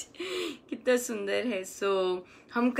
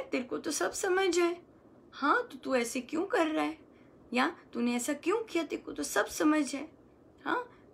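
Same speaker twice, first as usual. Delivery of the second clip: softer, coaxing encouragement; a fond nudge to show its talent; encouraging; 5 dB quieter than usual. Shown as a demonstration. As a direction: cheer your own mind on gently. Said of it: "तो इस तरह से अपने मन से बोलना है".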